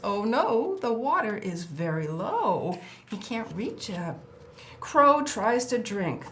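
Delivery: lively storybook read-aloud; reading to children. Acted. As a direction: read it like a picture book for a small child. Reads crow book to child.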